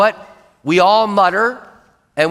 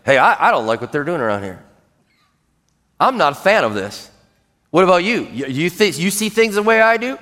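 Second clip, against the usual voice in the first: acted fault-finding, fishing for agreement; murmuring complaint. Shown as a demonstration. Complainer trying to build a crowd, murmuring. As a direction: complain as if recruiting a sympathetic ear. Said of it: "Murmuring is like".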